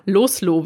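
„Loslo“ alemannisch, mit offenem o am Ende statt „Loslassen“; alemannische Aussprache. Shown as a demonstration. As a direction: sag „Loslo“ wie im Alemannischen, kurz und mit o am Schluss. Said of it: "wie es auf Alemannisch heißt". („Loslo“ in alemannischer Mundart ausgesprochen)

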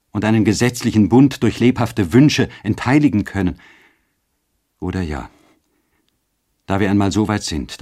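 a husband confessing guilt and urging his love; Eduard pleading. Acted. Eduard confessing to Ottilie, pleading, rising at the end.

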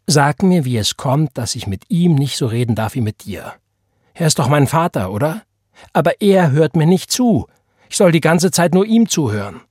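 a lightly voiced teenager protesting to his mother; defiant teenage son. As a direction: push back at Ma, indignant. Roy argues with his mother.

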